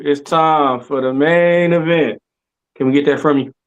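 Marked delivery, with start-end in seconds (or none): 0.0-2.2 Mark Henry impression. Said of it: "can we get the Mark Henry from you".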